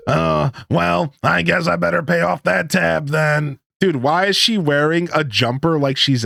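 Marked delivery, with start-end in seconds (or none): 0.1-3.6 grudging woman voice. Acted. Voicing Pam giving in.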